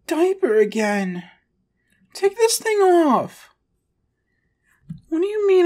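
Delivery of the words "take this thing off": high, louder indignant outburst; indignant demand. Acted. Shrunken daddy demanding the diaper be taken off, indignant. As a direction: insist like an outraged toddler.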